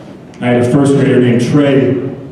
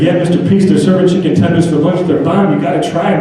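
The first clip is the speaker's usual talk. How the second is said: lightly voiced excited kid; 7 semitones higher than usual. First grader on chicken tenders.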